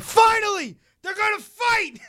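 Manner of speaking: high excited yell; excited scream. Retold or imitated. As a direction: yell it out at the screen. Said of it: "I literally scream at one point".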